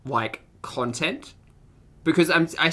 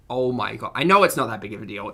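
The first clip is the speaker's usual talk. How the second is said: ordinary talk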